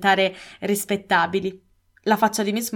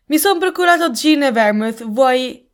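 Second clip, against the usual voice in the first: breezy call; 5 semitones higher, 6 dB louder than usual. A narrator's reading. Husband calls out on entering.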